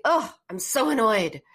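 demonstrated exasperation with feeling; really annoyed. Shown as a demonstration. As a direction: let the annoyance out on a big "Oh". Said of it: "You wanna really say".

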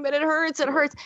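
lightly acted child's whine; imitated crying child. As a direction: keep insisting like a crying little girl. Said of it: "she's crying and crying and going".

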